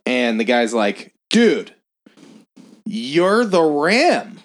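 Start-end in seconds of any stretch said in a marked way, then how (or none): 1.3-4.4 mock excited fan. Fan recognizing wrestler.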